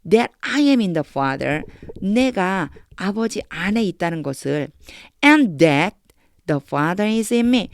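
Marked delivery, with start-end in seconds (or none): 0.1-1.6 slow reading. Shown as a demonstration. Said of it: "순서대로 읽으면서 영어를 영어식으로". 6.5-7.7 slow reading. Shown as a demonstration. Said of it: "순서대로 읽으면서 영어를 영어식으로".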